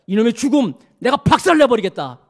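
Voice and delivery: mock-furious threat, given with the preacher's conviction; righteous anger against death, moderately voiced; Jesus's angry vow. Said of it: "이게 예수님의 마음이에요".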